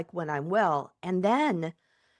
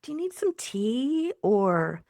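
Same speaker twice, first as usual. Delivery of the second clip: higher, tender soothing; mothering self-talk; 4 semitones higher than usual. Retold or imitated. Coach voices best friend comforting upset tummy, tenderly. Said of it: "mothering of yourself".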